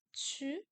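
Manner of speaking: "chu" with the tongue kept forward; fronted Q sound. Shown as a demonstration. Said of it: "la langue devant".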